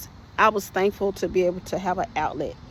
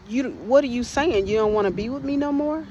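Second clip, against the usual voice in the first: angry demand; 5 semitones higher than usual. Retold or imitated. Angry husband confronting her.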